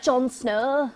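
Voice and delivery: a light northern English "Jon Snow"; northern English accent. Retold or imitated. Talking about Jon Snow, a light northern English accent. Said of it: "that northern English accent".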